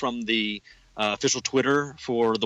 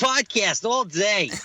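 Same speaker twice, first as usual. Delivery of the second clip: very high-pitched put-on little Boston kid accent; 9 semitones higher than usual. Opening a podcast episode with a co-host, the speaker does a little Boston kid voice. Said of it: "That was like a little Boston kid".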